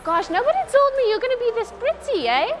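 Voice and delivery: high-pitched, delighted surprise; gushing compliment. Real, not acted. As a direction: gush at how pretty they are. Gushes compliments at the girls.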